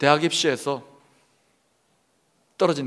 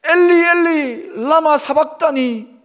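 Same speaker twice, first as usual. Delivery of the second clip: slow, high, loud cry; wailing appeal with voice thrown high; anguished cry to God; 9 semitones higher, 7 dB louder, slower than usual. Acted. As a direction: cry out long and drawn-out in forsakenness. Acting Jesus's cry on the cross.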